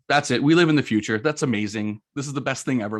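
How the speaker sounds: imitating excited wife. Retelling how his wife reacted to the defrosted car, excited. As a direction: play the wife bursting with delight.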